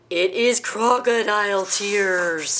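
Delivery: slow, grand announcement; eureka. Acted. Elephant announcing the cure to friends, slow and triumphant. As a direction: reveal it with triumph.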